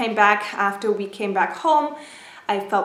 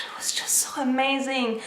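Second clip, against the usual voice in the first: awed whisper; 3 semitones higher, 5 dB quieter than usual. Real, not acted. Marvelling at ultrasound.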